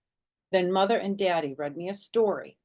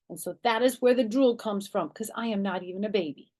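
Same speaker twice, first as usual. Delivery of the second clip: put-on loud, high insisting little girl; insistent child; 6 semitones higher, 6 dB louder than usual. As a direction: argue it's true, all worked up. Child insisting monsters real.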